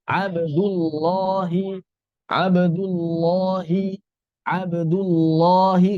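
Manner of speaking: 'Abdullahi' slow, heavy held 'loh'; thick lam. Shown as a demonstration. Teacher models after dhammah, thick lam. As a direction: raise the tongue back on 'Abdullahi'. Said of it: "diucapkan dengan cara menaikkan".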